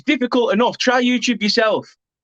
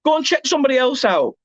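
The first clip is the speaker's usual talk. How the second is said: mocking the viewers; 4 semitones higher than usual. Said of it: "just come in and go".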